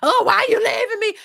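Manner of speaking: high-pitched mock complaint, like a distraught partner; hammed-up pleading wail; mock moaning. Imitating a man moaning to the woman leaving him, mock moaning. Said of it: "bitch and complain and moan like a woman".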